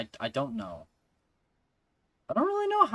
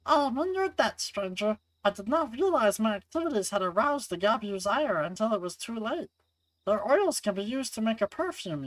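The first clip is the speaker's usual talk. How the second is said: higher, polite character voice turning wary; wary game heroine; 10 semitones higher than usual. Acted. Rescued woman questioning the stranger who found her, high wary voice. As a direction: voice a grateful stranger in a raised pitch.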